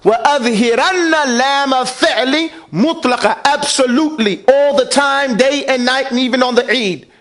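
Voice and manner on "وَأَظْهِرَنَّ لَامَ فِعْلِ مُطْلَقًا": fast chanted reading of the rule; recited Arabic text. Shown as a demonstration. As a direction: recite the Arabic line briskly. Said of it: "So make it idharan".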